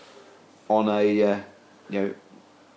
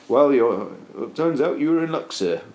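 put-on light Welsh accent, pitched up; 4 semitones higher than usual. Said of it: "And sounding like one, too".

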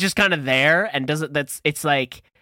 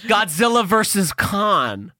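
movie title announcer; 5 semitones higher, slower than usual. Pretend.

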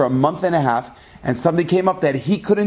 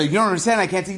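retold yell; 3 semitones higher, faster than usual. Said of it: "they started yelling and screaming".

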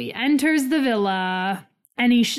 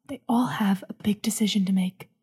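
announcer voice; faster than usual. Pretend. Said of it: "I'm just doing an announcer voice".

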